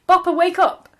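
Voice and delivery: loud urgent call. Acted. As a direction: call the dog to wake. Character calls to sleeping dog.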